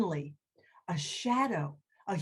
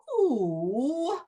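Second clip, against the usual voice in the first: hooted who, then gently asked; owl voice; much slower than usual. Acted. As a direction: hoot the who. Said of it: "you know how owls talk".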